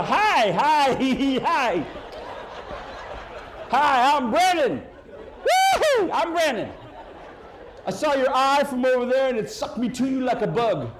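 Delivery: giggly, nervous fumbling intro; awkward nerd. Retold or imitated. Comic mocking Brennan's awkward pickup line, nervous and giggly. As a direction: stammer it like a shy goofy kid. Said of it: "some dude from Utah".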